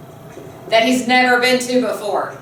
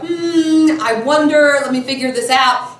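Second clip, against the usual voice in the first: mock pondering; 3 semitones higher than usual. Lecturer showing how Oedipus did not hesitate, mock pondering. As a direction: pretend to think it over. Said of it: "He doesn't even go".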